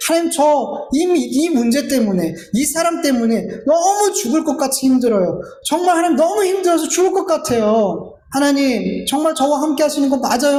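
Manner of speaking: high, pressing complaint in prayer; resentful outpouring. Retold or imitated. Preacher as an overwhelmed believer questioning God, resentful outpouring. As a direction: pour out grievances, imitating a struggling believer. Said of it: "원망의 말을 막 쏟아내면서".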